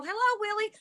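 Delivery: high sing-song hello; calling out sweetly. Retold or imitated. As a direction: coax the ghost gently. Calling out to ghost.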